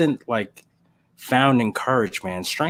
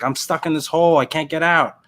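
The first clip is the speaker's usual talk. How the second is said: man stuck in a hole; 5 semitones higher, 3 dB louder than usual. Acted. Man in hole calls for help.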